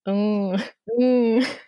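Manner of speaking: groaning zombie moan; zombie noise. Acted. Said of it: "I really enjoyed your zombie noise there".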